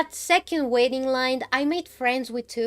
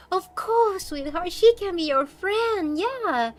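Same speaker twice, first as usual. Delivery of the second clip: lightly voiced doting parent, pitched up; lovely dad; 7 semitones higher, slower than usual. Dad indulges daughter's wish, mock sweet and high. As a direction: agree sweetly, as if to a small child. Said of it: "the dad was so lovely".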